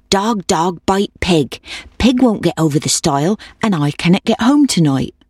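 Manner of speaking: lightly voiced old woman, chanting her request; pleading old woman. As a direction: urge the dog along, gently singsong.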